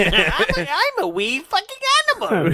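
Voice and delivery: high squeaky Irish leprechaun voice; hammed-up wee Irish leprechaun; mock Irish accent.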